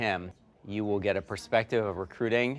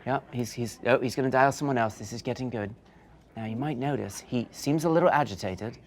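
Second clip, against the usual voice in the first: nature documentary. Pretend. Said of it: "like seeing an animal in the wild".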